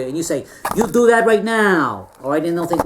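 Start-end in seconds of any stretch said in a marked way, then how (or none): 0.8-2.1 slow, firm and a bit louder, bossing them around; commanding order. Pretend. Job candidate bossing the HR interviewer, slow commanding order. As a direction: lay down the order like you own the place.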